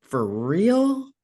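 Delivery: incredulous, rising at the end; drawn-out words climbing to a disbelieving question; indignant disbelief. Retold or imitated. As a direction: call them out in disbelief. Indignant retort to lowball pay.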